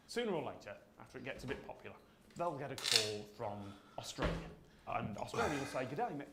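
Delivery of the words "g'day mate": put-on half-hearted Australian accent; an abandoned stab at an Australian accent; attempted Australian accent. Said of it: "I'm not gonna try and do accents".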